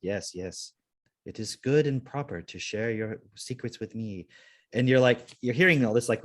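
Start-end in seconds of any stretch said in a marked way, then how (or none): 0.0-4.3 soft, measured automated confessor; understated robo-priest, evenly soothing; robot priest recording. Retold or imitated. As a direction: lightly imitate a priestly recording, softly. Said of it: "on-call robo priest forgiveness".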